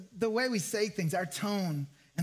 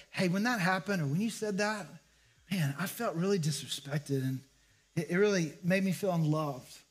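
gentle; 3 semitones lower than usual. Retold or imitated. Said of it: "focus on "I, me" statements".

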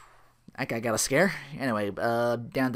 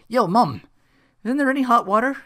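annoyed complaint; 12 semitones higher, 10 dB louder than usual. Retold or imitated. Phil complaining to landlady.

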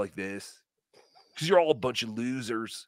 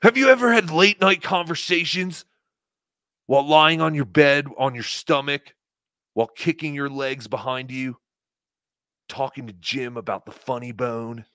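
louder Valley Girl impression of Chad; 4 dB louder than usual. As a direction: gush it like a Valley Girl teen. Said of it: "Valley Girl impression of Chad".

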